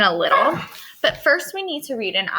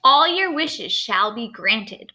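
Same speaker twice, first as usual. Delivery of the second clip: cried fairy; 3 dB louder, slower than usual. Acted. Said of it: "cried the fairy".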